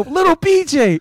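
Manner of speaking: high, loud taunting yell; shrill sing-song heckle from the stands; mock heckler yell. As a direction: taunt him like the fan behind the bench. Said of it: "he would go".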